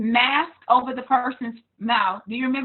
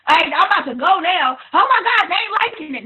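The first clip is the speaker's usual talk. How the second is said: impatient seller; 4 semitones higher, 5 dB louder than usual. Retold or imitated. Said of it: "'Cause I know a lot of y'all do that".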